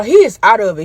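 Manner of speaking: normal talking voice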